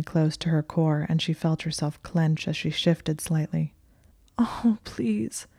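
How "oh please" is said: high, pleading, breaking on the edge of tears; sobbing whisper. A narrator's reading. Hermione pleads with Malfoy in a sobbing whisper. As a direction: beg him with a voice about to sob. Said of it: "she said in a sobbing whisper".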